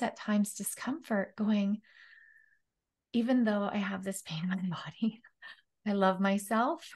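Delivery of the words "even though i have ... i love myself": quick, voiceless whisper to herself; whispered self-talk. Retold or imitated. Reliving a private moment of pain for the host, whispered fast. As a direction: murmur it as a secret comfort, quickly.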